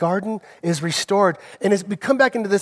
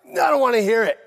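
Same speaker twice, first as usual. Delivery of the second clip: raised-pitch, irritated protest; mock angry refusal; 3 semitones higher, faster than usual. Husband retelling a fight with his wife, mock angry refusal. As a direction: push back like a husband who won't listen.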